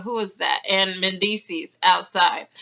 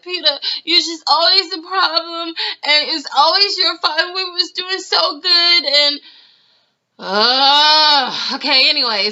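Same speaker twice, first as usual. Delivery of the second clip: higher, whiny complaining woman; mock Amina; 7 semitones higher than usual. Imitating Amina scolding Peter, higher and whiny. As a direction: nag him like a fed-up ex. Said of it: "she's like".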